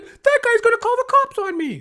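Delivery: frantic squeal, pleading it's his bike; panicky bike thief. Retold or imitated. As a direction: mimic a high panicky guy caught at the lock. Thief complaining to his buddy.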